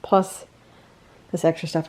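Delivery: breathless after lifting; a little winded from hauling boxes; out of breath. Real, not acted. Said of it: "I'm still out of breath from moving all this stuff".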